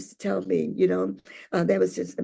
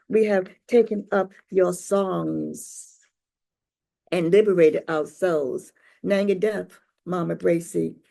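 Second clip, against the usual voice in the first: poem recital. Acted. Recites own memorial piece.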